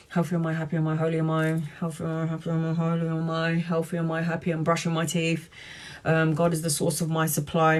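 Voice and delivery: soft, steady affirmation chant; murmured affirmations. Shown as a demonstration. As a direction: recite like a quiet mantra. Recites her daily affirmations.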